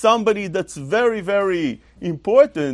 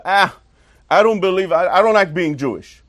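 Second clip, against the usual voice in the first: lightly voiced whiny kid; a hint of a sulking child; child's complaint; 3 dB louder than usual. Six-year-old complaining to his father, lightly whiny. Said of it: "He says to his father".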